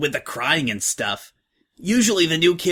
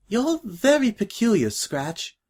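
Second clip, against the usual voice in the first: giggly; 9 semitones higher, slower than usual. Acted. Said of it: "tinier giggle".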